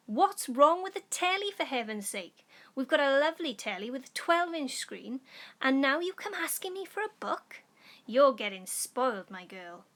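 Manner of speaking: loud, high exasperated father; irritated dad. Acted. Father scolding daughter for asking for a book, loud and exasperated. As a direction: berate her for wanting books.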